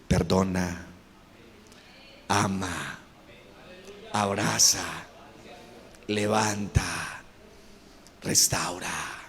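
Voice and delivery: very low, soft, solemn commands; one word at a time, deep and gentle; voice of God. Acted. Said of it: "Pero Dios te dice".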